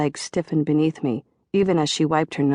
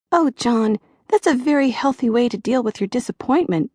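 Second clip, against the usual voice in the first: put-on high, sweet girlish therapist voice; little girl's voice; 8 semitones higher than usual. A narrator's reading. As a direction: soothe him like a tender-hearted little girl. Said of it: "Joyce had almost a little girl's voice".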